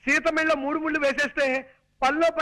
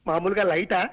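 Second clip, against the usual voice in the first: voice levels demo. Shown as a demonstration. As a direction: show light, medium, strong in steps. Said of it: "నా voice ఎలా మార్చమంటారు?". (తేలికగా మొదలై గట్టిగా పెరిగే గొంతు)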